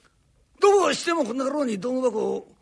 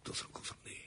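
barely voiced whisper, much softer; whispered aside; 24 dB quieter, much faster than usual. Carpenter muttering to himself mid-quarrel, whispered aside. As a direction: breathe it under your breath.

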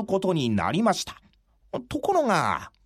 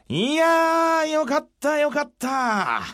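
high, slow delighted exclamation; relieved, beaming commander; jovial samurai leader; 7 semitones higher, slower than usual. Acted. Kondo voiced, delighted.

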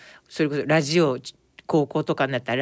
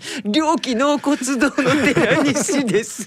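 laughing Teranishi quote; 10 semitones higher, 3 dB louder than usual. Retold or imitated. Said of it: "って言われて".

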